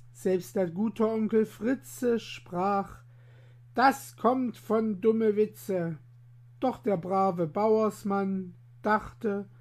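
lively rhyming story read aloud; bouncy verse storytelling; poem recitation. A narrator's reading. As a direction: tell the rhymes like a storyteller for children. Rhymed tale read aloud.

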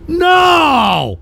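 high, long-held shout of dismay; drawn-out, high-pitched wail; shout of denial. Real, not acted. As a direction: cry out in disbelief, pitched high. Refuses to believe she quit.

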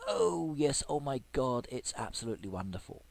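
a lightly acted preview of his cheer; half-play the delight he expects to feel; mock cheering. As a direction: pretend joy at a prize not yet opened. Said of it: "I'm going to be cheering and I'm going to be saying".

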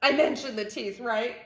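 lightly voiced shaken pigeon; pigeon character, shaken. Pigeon realizing what puppies are really like, mildly shaken. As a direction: trail down to a small hush.

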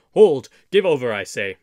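very loud commanding shout; cried out. A narrator's reading. Little John stopping the fight, shouting. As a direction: shout them down, first word highest. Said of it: "cried Little John".

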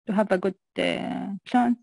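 normal talking voice

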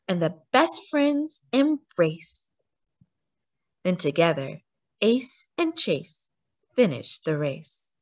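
lively storybook reading, bright and expressive; reading to children. A narrator's reading. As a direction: read it like a bedtime story to a little one. Reads a picture book aloud.

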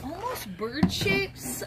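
put-on slow, soft old lady voice; creaky little granny musing; grandma voice. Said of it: "You like my grandma voice?".

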